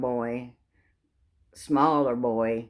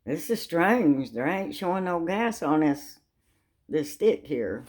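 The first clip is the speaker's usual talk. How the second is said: puzzled attendant; 4 semitones higher than usual. Retold or imitated. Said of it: "He said".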